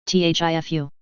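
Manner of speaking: "Thifu" lisped with th for s; tongue-damaged lisp on "Thifu". A narrator's reading. Jaraz admitting to Gavin where he posted, lisping "Thifu". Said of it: "Jaraz lisped".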